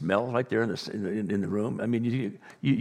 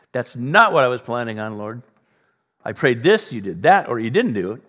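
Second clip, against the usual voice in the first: loud complaint to God; indignant; 6 dB louder than usual. Acted. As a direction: protest with mild, acted indignation. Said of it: "you and I become indignant".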